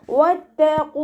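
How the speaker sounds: വത്തഖൂ with lips rounded on the waw. Shown as a demonstration. Teacher demonstrates വത്തഖൂ with rounded lips. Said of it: "ത light ആക്കിയിട്ട്".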